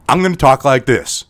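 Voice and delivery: put-on accent-neutral American delivery. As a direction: switch to a plain American accent. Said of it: "talking with an American accent".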